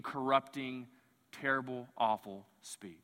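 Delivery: sinking low and soft; solemn, hushed condemnation; grave preaching. Real, not acted.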